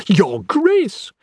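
high, excited exclamation. Acted. Anatomist hailing the Queen, excited. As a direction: greet royalty with an eager burst. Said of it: "he said excitedly".

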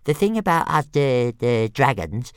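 high, loud, stammering dragon voice; a cocky little dragon tripping on his consonants; squeaky stammering pet dragon; stuttering little dragon. A narrator's reading. Toothless explaining dragons.

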